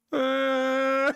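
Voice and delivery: high, whiny fake sob from a toddler; imitating a kid's put-on cry. Dad imitates his son's fake crying, whiny sob. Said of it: "And he's like".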